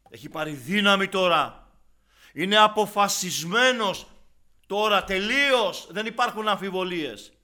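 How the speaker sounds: loud, high, forceful sermon delivery; fiery preaching. Acted. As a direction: hammer the warning at the congregation.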